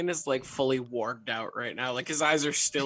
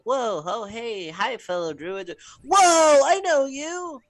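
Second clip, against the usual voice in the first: higher, loud burst on the second whoa; feigned surprise; 10 semitones higher, 7 dB louder, slower than usual. Pretend. Player acting out stumbling upon the druids, feigned surprise. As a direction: act like you just stumbled upon them.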